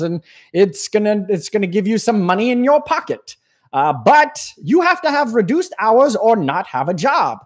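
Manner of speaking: a lightly hammed-up cheerful official; goofy Uncle Sam. Uncle Sam offering workers silly extra benefits, lightly hammed-up. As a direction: sell silly benefits like a cheesy salesman. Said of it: "this is the way he sounds here".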